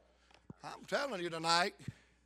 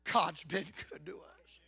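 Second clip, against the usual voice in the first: quiet reassurance; 2 semitones lower, 4 dB quieter than usual. Retold or imitated. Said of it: "And he looks at her and said".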